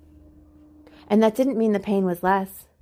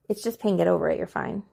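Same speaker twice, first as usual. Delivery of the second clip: curt and brushing it off; dismissive; faster than usual. Shown as a demonstration. Dismissing someone's grief as nothing, curt and cold. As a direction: brush the pain aside like it's nothing. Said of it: "that's the opposite of what I'm saying".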